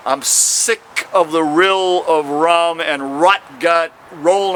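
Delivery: slow, rhythmic performance poetry; rhythmic poetry reading with punchy endings; poem reading. Acted. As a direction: lean into the rhymes like a slam poet. Performs his poem aloud.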